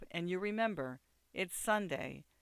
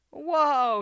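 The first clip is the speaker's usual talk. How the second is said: loud, high, drawn-out "whoa"; amused exclamation; 10 semitones higher, 12 dB louder than usual. A narrator's reading. Bix sees how high Drew is, exclaiming loudly. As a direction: cry out at a friend's state. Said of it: "laughing when he sees from Drew's eyes".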